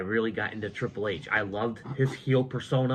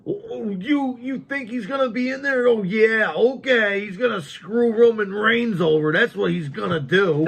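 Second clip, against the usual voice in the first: high, loud sarcastic imitation; mock disbelief, pitched way up; mocking scoff; 12 semitones higher, 8 dB louder than usual. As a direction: shout it back as an incredulous, jeering retelling. Acting out friend's scoffing reply.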